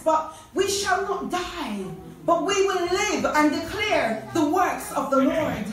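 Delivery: measured preacher's declaration; declarative preaching. Acted. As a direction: proclaim it firmly over yourself. Declares scripture over herself.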